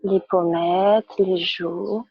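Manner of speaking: calm, measured yoga-class instruction; unhurried guidance with pauses between phrases; guided relaxation. Real, not acted. Yoga teacher guides students lying on their backs, calm guided relaxation.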